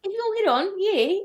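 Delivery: squeaky high mock British; giving up on a bad British accent. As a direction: cheer it in a hammed-up British accent. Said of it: "I can't do a British accent right now".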